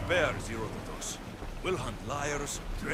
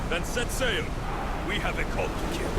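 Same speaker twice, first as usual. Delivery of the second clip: commanding; 3 semitones higher, 5 dB louder than usual. Acted. Commander answering rally.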